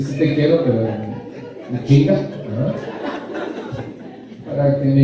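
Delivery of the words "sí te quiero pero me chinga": a hint of a nagging voice on "Sí te quiero, pero me chinga"; slightly raised mock complaint; mock nagging lover. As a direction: lightly imitate someone who loves but harasses. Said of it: "Conocen a alguien que dice".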